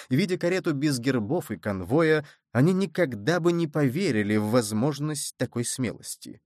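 ordinary delivery

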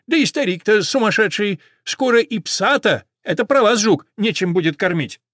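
high, loud, scolding sparrow; gossiping sparrow. A narrator's reading. Sparrow reports the shopkeeper's scorn to horse and dog, spiteful.

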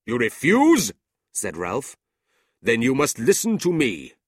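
corner him; cold demand. A narrator's reading. Ralph coldly demands the boy back.

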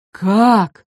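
mild drawn-out alarm; understated startled cry; agitated exclamation. A narrator's reading. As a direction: exclaim it as the slow giant. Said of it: "с волнением воскликнул Дип".

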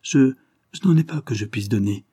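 hesitant, anxious stumble on the first word; a touch of anguished faltering; anguished stammer. Acted. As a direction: stammer slightly, as if distressed. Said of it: "bégaya-t-elle".

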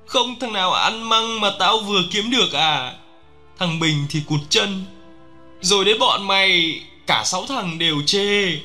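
high-pitched, wailing lament; keen over lost comrades, reproaching them; crying out in grief. A narrator's reading. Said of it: "Tôi cứ gào lên khóc giữa cánh rừng".

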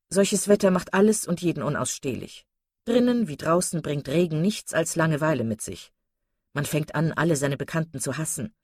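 mildly disgruntled gentleman; grumbling complaint. Acted. Mr Palmer complaining about weather and host, mildly grumbling. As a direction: complain with a touch of bored disdain. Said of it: "über das Wetter zu klagen".

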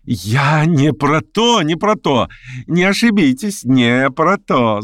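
ordinary delivery, nothing marked

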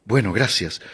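softly moved thanks; a touch of emotion, said softly. A narrator's reading. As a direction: thank them quietly, touched. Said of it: "mirándolo emocionada".

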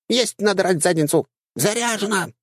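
put-on high, squeaky girlish chatter; squeaky dryad. Dryad confirms order.

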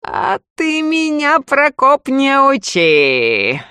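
slow, stretched-out words with a high start; drawled, slow and taunting; drawling the words. A narrator's reading. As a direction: drag each word out lazily. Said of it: "Растягивая слова".

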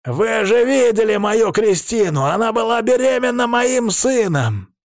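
very high, overwrought plea; desperate protest. A narrator's reading. Krestovsky appeals to the council about his wife, desperate protest. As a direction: insist frantically, outraged.

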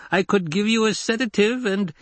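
high-pitched, cautious coaxing; placating offer. Acted. Doctor offering the lady calm, placatingly. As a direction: offer help gingerly until cut off.

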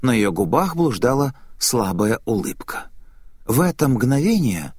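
ordinary delivery

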